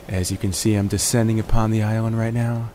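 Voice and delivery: groggy just-woke-up voice; morning voice. Real, not acted. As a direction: talk in your rough morning voice. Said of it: "I got my morning voice in full effect".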